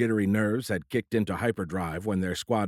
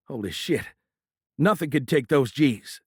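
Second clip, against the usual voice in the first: thunderstruck; 5 semitones higher, 3 dB louder than usual. A narrator's reading.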